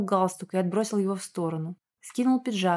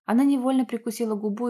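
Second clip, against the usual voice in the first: usual speaking voice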